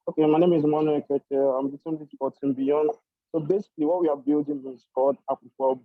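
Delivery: muffled, hard to make out; speaking through a muffled mic; muffled audio. Real, not acted. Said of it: "Audio is muffled".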